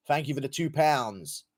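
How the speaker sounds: lightly put-on British thank-you; a touch of parody Brit; mock British accent. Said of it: "Sorry about my British accent".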